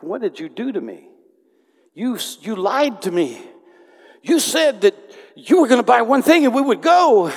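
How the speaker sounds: accusing her, rising to a loud high yell; a husband yelling at his wife that she lied; angry outburst, building. Retold or imitated. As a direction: start hurt, then blow up at her in a shout.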